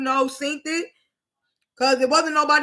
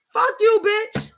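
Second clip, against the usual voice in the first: yelled curse; 8 semitones higher, 3 dB louder, slower than usual. Acted. Ranting at angry friends.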